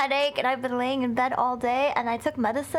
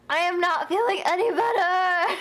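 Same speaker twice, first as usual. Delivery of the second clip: whiny complaint; 4 semitones higher than usual. Real, not acted.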